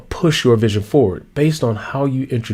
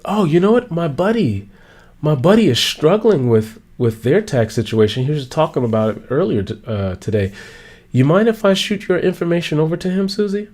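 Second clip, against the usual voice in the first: helpful listener; 4 semitones higher than usual. Retold or imitated. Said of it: "Or she's like".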